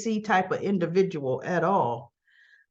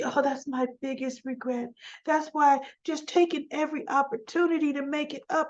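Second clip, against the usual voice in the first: higher, softer retold lament; mock regret; 4 semitones higher, 4 dB quieter, faster than usual. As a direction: voice her regretful excuse, high and soft. Voicing Diane's regretful excuse to Kyle.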